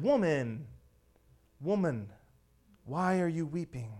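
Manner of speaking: softly, tenderly asking, a little low; gentle Jesus. Acted. Jesus speaks to weeping Mary, gently.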